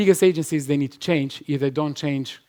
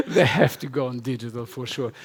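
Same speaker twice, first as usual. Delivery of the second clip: laughing. Real, not acted. Still laughing after outburst.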